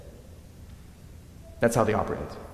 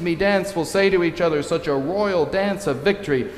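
ecstatic cry; 5 semitones higher, 3 dB louder than usual. Retold or imitated. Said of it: "she cries ecstatically".

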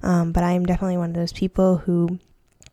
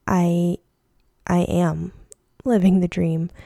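halting, sincere realization; mean it this time, with pauses between phrases. Real, not acted.

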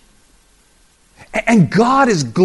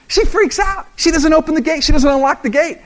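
excited; 11 semitones higher, 4 dB louder than usual. Acted. Preacher acting out Rhoda's panic.

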